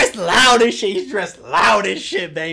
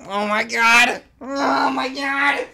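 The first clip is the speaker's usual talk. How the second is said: overwhelmed squeal; 3 semitones higher, slower than usual. Real, not acted. Overwhelmed by the skin.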